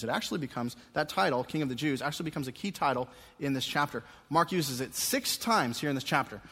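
ordinary talk

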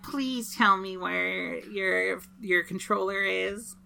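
slow, soft puppy-dog plea; sweet pleading. Acted. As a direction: beg sweetly and slowly. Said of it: "give him the sad puppy dog eyes and be like".

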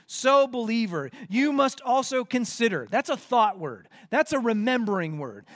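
punchy, verse-by-verse exhortation; lifted, insistent pulpit delivery; emphatic preaching. Real, not acted. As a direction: stress the key words as a preacher would. Expounds the verse forcefully.

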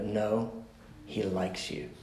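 low, hushed reassurance; gentle insistence. Retold or imitated. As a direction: press it home very softly. Gently insisting to counseling client.

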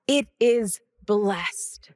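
slow whispered It is blessed; hushed whisper to close the thought. Real, not acted. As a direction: breathe the words, almost silent. Quiet affirmation in sermon.

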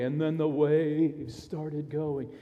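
slow, drawn-out storyteller line; lightly dramatized, stretching the words out slowly; storytelling dad. Retold or imitated. Dad telling his kids the storm story, slow storyteller voice. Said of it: "I'd start to tell the story".

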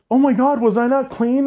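high-pitched mock dismay; retold horror. Storyteller replaying their alarm, high and horrified.

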